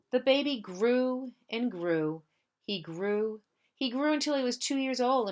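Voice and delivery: put-on gentle read-aloud for children; story narration. Teacher reads picture book aloud.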